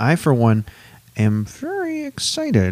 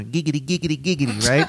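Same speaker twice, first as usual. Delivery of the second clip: Quagmire voice; faster than usual. Pretend. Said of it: "Can you do Quagmire".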